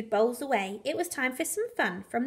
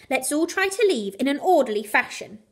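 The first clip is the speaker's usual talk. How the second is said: firm order; 3 dB louder than usual. Acted. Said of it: "barked Clive".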